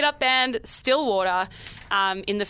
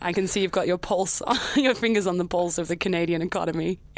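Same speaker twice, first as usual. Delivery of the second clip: put-on Canadian accent; 5 semitones lower than usual. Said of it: "You're very Canadian all of a sudden".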